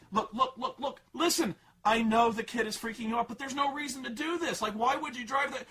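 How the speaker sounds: high mock voice of a condescending parent; dismissive dad. Dad dismissing daughter's story, mocking impatient voice. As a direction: brush her off impatiently. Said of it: "she's like".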